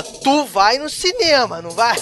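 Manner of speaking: cobrança firme, começando alta e lenta; imponha, como quem bota contra a parede; imposição de Capitão Nascimento. Acted. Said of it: "quando tu quer impor". (tom intimidador, estilão capitão)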